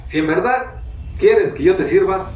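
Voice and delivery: a man begging God for three things; retold prayer. Pastor retells his tearful prayer, lightly heightened. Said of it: "en oración le dije".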